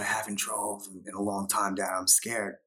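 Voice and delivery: soft breathy half-whisper; barely voiced, nervous; hushed and scared. Scared son answers his father.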